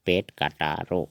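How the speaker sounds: "पेट काटारो" as a careful model; Assamese pronunciation. Shown as a demonstration. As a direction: say "पेट काटारो" clearly, ending in a rounded o. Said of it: "उच्चारण होगा".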